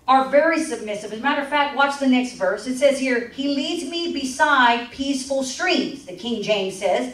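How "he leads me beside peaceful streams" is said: scripture reading. Acted. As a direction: read it out slowly and reverently.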